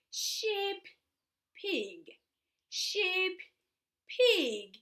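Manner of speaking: put-on bright, sing-song toddler voice; reading to a toddler. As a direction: coax a small child along. Animal sounds to a toddler.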